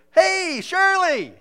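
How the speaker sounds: high, drawn-out shout across a store; Darren hollering. Retold or imitated. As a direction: call out loudly to someone far off. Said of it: "he could be the other side of the store".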